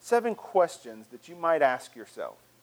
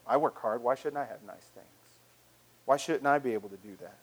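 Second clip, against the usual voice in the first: entitled voice; 5 semitones lower than usual. Acted. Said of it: "that voice of entitlement that says".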